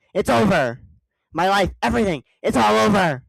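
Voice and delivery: loud, high despairing cry; hammed-up loud lament; despairing wail. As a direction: wail that it's all over. Larry wailing in despair.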